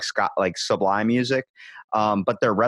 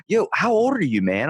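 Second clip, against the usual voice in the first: much higher, chummy surfer-dude question; friendly stoked rocker; excited rock singer; 5 semitones higher than usual. Retold or imitated. Singer asks his age.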